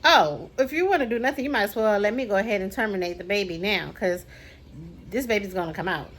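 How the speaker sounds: mimicking a rude, blunt doctor; fast, dismissive doctor voice; lightly voiced callous doctor. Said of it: "rude, no bedside manner way".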